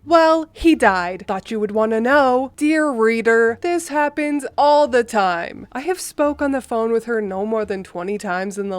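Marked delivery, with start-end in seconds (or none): 0.0-2.5 mom shrugs off a death; mom's offhand news. Retold or imitated. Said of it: "Typical phone calls from my mother".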